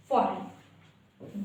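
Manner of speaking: "फॉरेन" said slowly as for-en, no g; teacher draws out "फॉरेन" with no g; silent g, drawn out. Shown as a demonstration. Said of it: "जी है वो हमारा silent".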